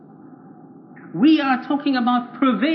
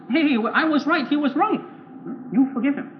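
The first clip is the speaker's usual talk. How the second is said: higher-pitched protest of an offended believer; indignant protest; 5 semitones higher, slower than usual. Acted. Offended believer answers the Lord's command to forgive, indignant protest. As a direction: object as the wronged party.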